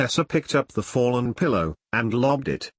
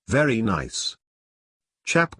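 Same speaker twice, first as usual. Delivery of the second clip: mock posh English accent. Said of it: "Jane imitated father's accent".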